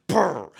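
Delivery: rolled brrr for scraping metal; quick rattling noise imitation; imitated metal clatter. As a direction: trill it like metal hitting a door. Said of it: "I hear some metal thing".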